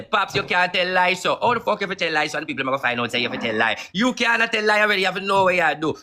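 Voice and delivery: mock Town Man correcting Pops; imitating Town Man. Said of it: "Town Man used to say".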